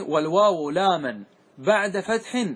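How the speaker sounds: والواو لاما بعد فتح drawn out slowly word by word; slow recitation. Shown as a demonstration. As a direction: spell the verse out slowly for students. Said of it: "هذا معنى قوله". (قراءة بطيئة للبيت)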